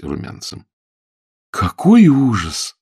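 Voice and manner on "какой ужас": slow, louder, gleeful; mock exclamation. A narrator's reading. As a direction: exclaim with glee. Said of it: "воскликнул Фредерик". (насмешливое восклицание)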